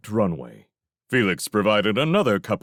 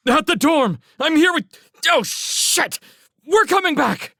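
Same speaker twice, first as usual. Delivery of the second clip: high, loud frantic shouting; panicked report; 6 dB louder than usual. A narrator's reading. Railsmith tells Felix where he is, screaming in panic. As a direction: yell it as if under attack.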